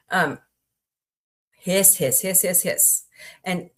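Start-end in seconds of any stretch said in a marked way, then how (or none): 1.5-3.0 mimicked cat hiss. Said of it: "She just hisses at everybody".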